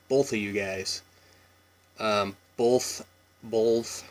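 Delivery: "both" with a light l, bolth, slow; slight L in both. Shown as a demonstration. Vlogger showing viewers her Washington bolth. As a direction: slip a faint l into "both". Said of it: "like a slight L in there".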